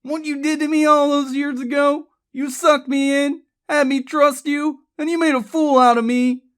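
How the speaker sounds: sustained high, loud fury; screamed rant. A narrator's reading. Charlie rants at Bobby at gunpoint, screaming. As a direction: rage at him without letting up. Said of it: "Charlie screamed".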